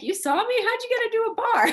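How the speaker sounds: high, laughing disbelief; surprised and amused. Retold or imitated. Her own surprised reply.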